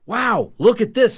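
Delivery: high, slow, loud "wow" of disbelief; amazed paramedic. Retold or imitated. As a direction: imitate a stunned paramedic reading the meter. Paramedic amazed at breathalyzer reading.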